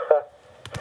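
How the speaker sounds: "h" as a breathed huh; isolated H sound. Shown as a demonstration. Teacher isolating hey's sound, a breathed h. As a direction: puff out "h" alone. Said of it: "but the idea is the".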